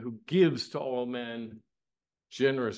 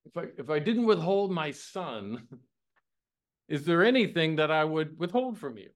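voicing God; 4 semitones higher than usual. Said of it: "he says".

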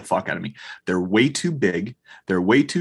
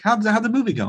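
high-pitched voice for a wife; imitated wife; 13 semitones higher, faster than usual. Wife greeting husband and son at home, imitated in a high voice. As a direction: put on a raised voice as the wife.

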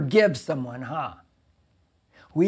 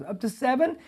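self-satisfied; 8 semitones higher than usual. Retold or imitated. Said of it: "He's making himself sound good".

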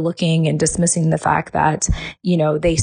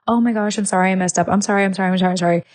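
over-apologetic gushing; 3 semitones higher, faster than usual. Retold or imitated. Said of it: "when you apologize to someone".

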